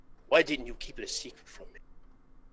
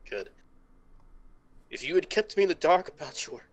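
ordinary delivery

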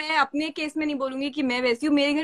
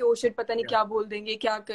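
a mild imitation of a scared girl, softer; scared thoughts; 5 semitones lower, 4 dB quieter than usual. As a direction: mutter it like a frightened schoolgirl. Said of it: "डरी हुई".

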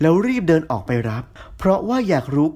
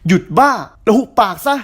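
snapping; 5 semitones higher, 5 dB louder than usual. A narrator's reading. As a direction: bark it at her to shut up. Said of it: "ตินตะคอก".

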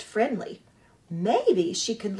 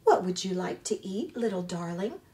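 friendliest voice; 2 semitones lower, 3 dB quieter than usual. Acted. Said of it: "using her friendliest voice".

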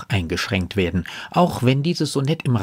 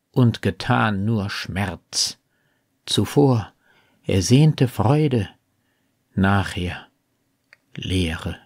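slow, measured sonnet reading with weighty pauses; solemn poetry reading, phrase by phrase; poem recitation; slower than usual. Acted. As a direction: recite verse deliberately, letting key words stand alone.

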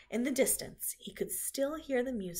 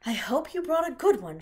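a touch louder, gentle spider voice; Charlotte's voice; 4 semitones higher, 10 dB louder than usual. Acted. Charlotte asks Templeton, lightly voiced spider. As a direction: voice Charlotte, asking the rat.

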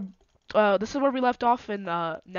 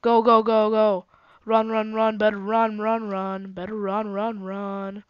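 frantic urging to run; panicking gamer; slower than usual. Real, not acted. Chased by mobs in Nether.

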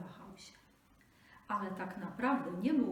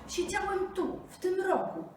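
high, loud furious snap; angry snarl; 12 semitones higher, 8 dB louder than usual. Acted. Tiger snarls at the jackal, loud and angry. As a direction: snarl at the fool.

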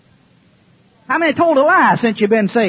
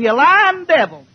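slow mock yell, a bit higher; retold scream; 5 semitones higher, 4 dB louder, slower than usual. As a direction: spit it out slowly like an accusation. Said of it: "I, I screamed".

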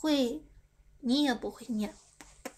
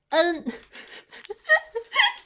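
high burst of laughter; 8 semitones higher, 4 dB louder than usual. Real, not acted. Streamer fails at English spelling, bursting into high laughter. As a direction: crack up mid-demonstration. Breaks up while spelling letters.

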